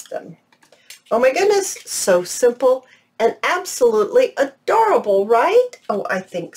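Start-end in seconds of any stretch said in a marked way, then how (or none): 1.1-5.3 high, bright burst of delight; delighted gush. Real, not acted. Crafter thrilled by her finished cupcake-liner clusters, delighted gush. 5.3-5.7 excited right. Real, not acted. Seeking agreement, delighted.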